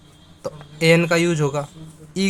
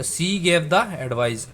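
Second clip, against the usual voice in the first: slow example sentence; much slower than usual. Shown as a demonstration. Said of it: "इसके साथ दा का use होगा".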